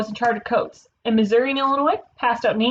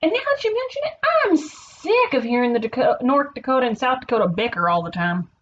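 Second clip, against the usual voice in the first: excited; 3 semitones higher than usual. Acted. Nebraska sick of the Dakotas' bickering, excited venting. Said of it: "said Nebraska excitedly".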